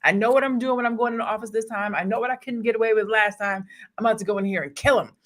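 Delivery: lightly voiced boss declaring he's in charge; brash president impression. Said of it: "He was like".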